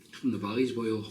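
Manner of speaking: a lightly put-on Welsh valleys accent; a half-hearted Welsh valleys accent, joking about a friend; bad Welsh accent. Shown as a demonstration. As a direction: drop into a mock Welsh lilt, half-hearted. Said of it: "Shit Welsh accent there".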